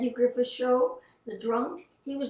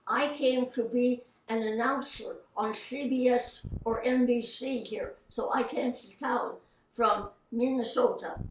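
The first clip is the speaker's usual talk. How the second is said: lazy tongue voice. Retold or imitated. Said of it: "he had a speech impediment".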